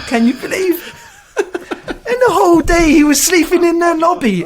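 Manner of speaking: can't stop laughing at the memory; real laughter. Real, not acted. Teller cracks up at story.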